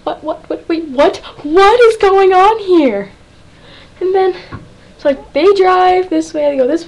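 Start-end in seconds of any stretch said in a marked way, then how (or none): 0.0-3.1 hammed-up baffled outburst; mock bewilderment building to a slow wail; bewildered. Acting out bewildered texting about episode.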